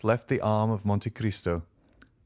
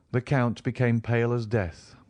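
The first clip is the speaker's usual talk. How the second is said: plain reading voice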